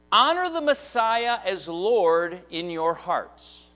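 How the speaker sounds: slow, weighty reading of the verse; slow scripture reading. Shown as a demonstration. Pastor reading scripture slowly to the congregation. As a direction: read it out slow and solemn. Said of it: "reading the text slowly".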